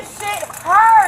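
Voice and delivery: slow, drawn-out cry of pain; pained wail. Real, not acted. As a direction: wail it, dragging the words. Restrained woman protests in pain.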